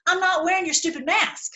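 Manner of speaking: heated, stubborn protest; defiant refusal. Acted. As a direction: refuse indignantly, pitch lifted. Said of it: "Okay, I'm calming down".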